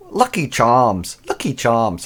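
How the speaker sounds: lightly put-on Irish accent; a hint of stage Irish accent. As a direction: slip into a playful Irish accent. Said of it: "That's my Irish accent".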